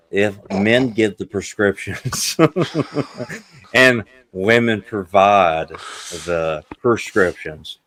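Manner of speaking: slow, careful. Real, not acted. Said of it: "I fucked that up".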